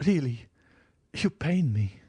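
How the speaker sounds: a hurt plea swallowing tears; plaintive, near a sob. A narrator's reading. Countess to the count, plaintive and near tears. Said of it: "so plaintive an accent ... stifle a sob".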